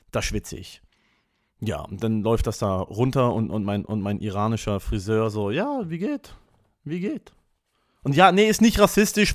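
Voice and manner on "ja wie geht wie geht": higher-pitched, soft mock of a foreigner's halting German; imitating Iraqi barber's broken German. Barber asks the customer something, imitated in broken German, pitched up. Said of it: "weil so klingt der".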